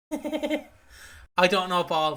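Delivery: slow, laughing through the words; "I don't know ball" laughed out slowly. Real, not acted. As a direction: chuckle it out slowly. Laughing while repeating the phrase.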